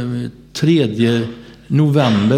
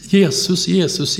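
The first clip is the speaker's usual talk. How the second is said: higher, repeated murmured "Jesus"; mumbling Jesus; 6 semitones higher, slower than usual. Retold or imitated. Doctor imitating the stroke patient's repeated calls, lightly voiced. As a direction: imitate a half-conscious patient calling on Jesus. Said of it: "Du säger bara Jesus hela tiden".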